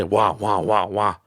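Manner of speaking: put-on wah wah like a whiny baby; mock crybaby wah; mock whining. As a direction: fake baby whine. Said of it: "it sounds like I'm just whining and crying".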